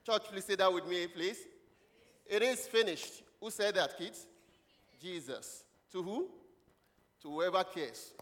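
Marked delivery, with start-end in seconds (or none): 2.2-3.2 high-pitched, declaimed announcement; scripture proclamation. Acted. Preacher gives the church the sixth word, proclaimed high. Leads congregation in repeating scripture.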